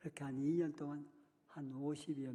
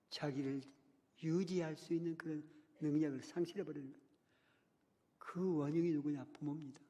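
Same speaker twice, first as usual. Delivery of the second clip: higher, louder preaching, rising in force; impassioned preaching; 4 semitones higher, 4 dB louder than usual. Acted. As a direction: preach it out, pressing the congregation.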